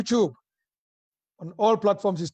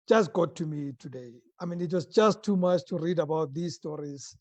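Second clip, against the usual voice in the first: a touch of sadness; 2 semitones lower than usual. Real, not acted. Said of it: "I'm slightly depressed today".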